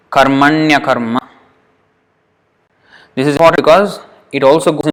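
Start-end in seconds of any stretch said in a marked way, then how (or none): 0.1-1.2 "Karmanya karma" linked through the ya glide; joined as one word. Shown as a demonstration. Teacher treating two Sanskrit words as one, joined up. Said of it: "treat those two words as one word".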